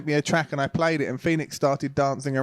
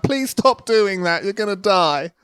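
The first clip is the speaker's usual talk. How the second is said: worried parent; 5 semitones higher, slower than usual. Retold or imitated. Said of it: "I'm like".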